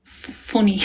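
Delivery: put-on practising an Irish accent, word by word; falling, repeated attempt at Irish accent; imitated Irish accent. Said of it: "my accent's perfect".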